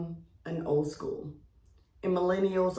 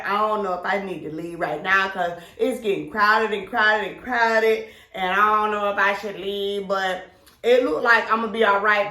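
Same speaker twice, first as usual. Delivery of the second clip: louder, hyped caller shouting over a club; excited party voice; 2 semitones higher, 5 dB louder than usual. Retold or imitated. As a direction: sound thrilled and a bit worried, loud. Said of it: "you're saying".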